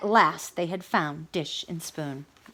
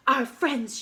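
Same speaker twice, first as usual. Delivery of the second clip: gasped; 6 semitones higher than usual. Acted. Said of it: "she gasped".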